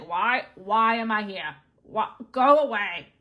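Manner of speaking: a hint of a grouch shooing someone off; irritated Invisible Man. Invisible Man wanting the fangirl gone, mock grumbling. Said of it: "he's irritated".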